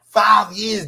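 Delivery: loud, forceful burst. Real, not acted. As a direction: shout the number to make the point. Heated argument, stressing how long.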